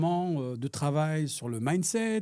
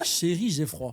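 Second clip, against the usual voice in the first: giggling while quoting the line; laughing; slower than usual. Retold or imitated. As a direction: repeat it through laughter. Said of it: "j'entends une petite voix".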